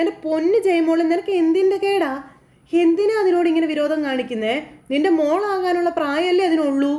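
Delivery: lightly voiced grandmother pleading with her daughter; pleading rebuke. Grandmother scolds daughter for cruelty.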